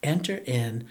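quiet, choked-up confession; holding back tears; teary-eyed. Real, not acted. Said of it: "I'm teary-eyed through this".

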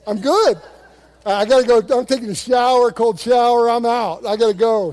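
loud, comic imitation of fleeing temptation; hurried panicked excuse. Tempted intern bails out for a cold shower, mock panic. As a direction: blurt it out loudly, playing someone desperate to leave.

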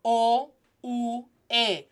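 O, U, E said as "oh, oo, eh"; pure Spanish vowels. Shown as a demonstration. Teacher showing the three sounds, pure Spanish vowels. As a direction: separate O, U, E into clean vowels. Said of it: "three sounds that you should hear".

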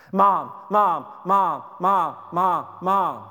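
put-on whining kids. Mom imitating her nagging kids.

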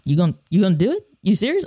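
mock the coach's stunned disbelief; surprised disbelief. Coach can't believe he agreed, fast incredulous questioning. Coach amazed at quick yes.

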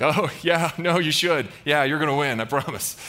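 mock agreement, dripping with insincerity; super sarcastic. Micaiah telling the kings they will win, super sarcastic. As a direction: play at reassuring them, sarcastically. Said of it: "super sarcastically".

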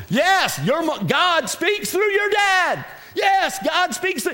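high, drawn-out insistence; emphatic preaching. Real, not acted. Mock-insisting to young people in congregation.

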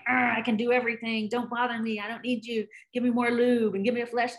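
a hint of a gruff, grumbly teen; lightly voiced macho boy brushing mom off; tough kid. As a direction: mom imitating her tough son acting like he needs nobody. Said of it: "this tough kid who's just".

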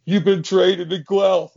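slow, high announcement of the trade; quoting the coaches. Retold or imitated. Coaches telling the player he's traded, slow and high. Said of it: "They're like".

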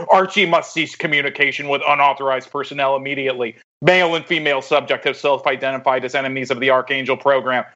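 flat automated announcement; security system voice. Acted. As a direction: read it like a machine alert. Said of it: "my security system must have just gotten set off".

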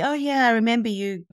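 sudden recognition. Retold or imitated. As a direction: act out pleasant recognition of an old contact. Imitates someone recognizing her.

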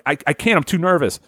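lightly acted jitters; nervous. Logan is stressed while driving.

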